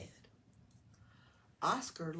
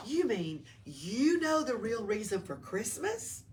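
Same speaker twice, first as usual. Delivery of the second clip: higher, louder eager question; excited lizard; 5 semitones higher, 8 dB louder than usual. A narrator's reading. Oscar asks the angel eagerly, excited. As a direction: burst out with excitement.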